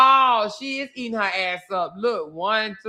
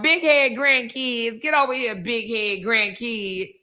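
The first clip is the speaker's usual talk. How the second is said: mocking Ashley; 2 semitones higher, slower than usual. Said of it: "She talking about".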